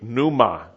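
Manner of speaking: "pneuma" said NOO-muh, with a silent p; the word "pneuma" with no p sound at the start; Greek word pneuma. Shown as a demonstration. Preacher teaches the congregation the Greek word, silent p. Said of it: "And in Greek".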